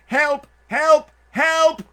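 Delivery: high, loud calls for help; cry for help. Acted. Drowning ant calls to the rabbit, high and loud. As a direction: call out desperately from the water.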